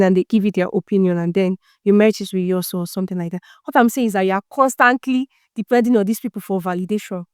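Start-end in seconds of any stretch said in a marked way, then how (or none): 4.2-6.0 "constantly" pronounced with deliberate emphasis; marked weight on "constantly"; stress on CONSTANTLY. Real, not acted. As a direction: press on the word "constantly". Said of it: "Please, emphasis on constantly".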